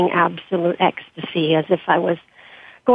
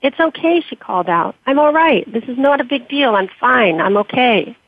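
louder, fervent; 4 semitones higher than usual. Acted. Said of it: "She began to speak louder".

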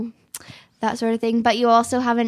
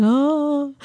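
yawn; 3 semitones higher than usual. Retold or imitated. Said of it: "instead of going".

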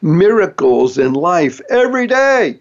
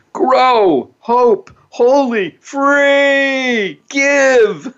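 bright upbeat list; 8 semitones higher, much slower than usual. Real, not acted. Lists his positive four-letter words.

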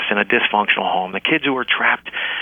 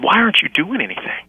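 angry plea; 10 semitones higher than usual. Retold or imitated. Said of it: "and I got mad".

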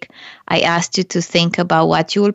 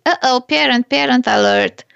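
radar alarm; 5 semitones higher than usual. Retold or imitated. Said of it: "you go radar and say".

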